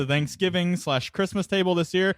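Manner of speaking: embarrassing uncle. Pretend. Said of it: "Or anything that the drunk uncle will say".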